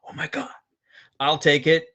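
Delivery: high, hushed mock amazement; light, high-pitched astonished gasp of words; imitated freak-out. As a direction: mimic an amazed customer, high but not loud. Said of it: "you're gonna be freaking out going".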